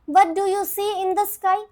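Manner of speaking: slow classroom question voice; teacher's question. Retold or imitated. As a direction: ask it slowly, each word clear for children. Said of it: "teacher फिर again उनसे पूछते हैं".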